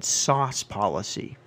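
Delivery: slow, deliberate sauce policy; mock stern quote. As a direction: repeat it slowly like the manager. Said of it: "he looked me in my eye and he said".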